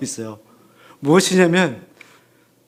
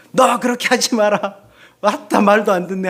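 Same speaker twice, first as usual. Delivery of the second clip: higher, louder telling-off; exasperated parent scolding the child, sharp; 4 semitones higher, 3 dB louder than usual. Retold or imitated. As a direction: snap at a child who won't listen.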